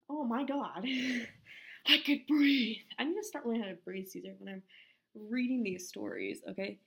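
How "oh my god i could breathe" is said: exclaim. Real, not acted. Laughing outburst.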